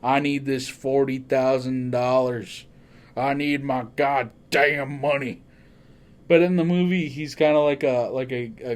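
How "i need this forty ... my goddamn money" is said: lightly voiced slow cowboy drawl, gruff; a hint of Sam Elliott's deep cowboy growl. Detective demanding his money, in a mild Sam Elliott voice. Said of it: "Sam Elliott with his deep voice".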